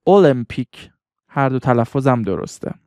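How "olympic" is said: المپیک repeated as "oh-LIM-pik"; full O pronunciation. Shown as a demonstration. Teacher repeats the second option for learners, full O pronunciation. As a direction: sound the O clearly at the start of المپیک.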